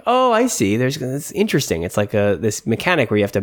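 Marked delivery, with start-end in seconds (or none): 0.1-1.8 mock discovery.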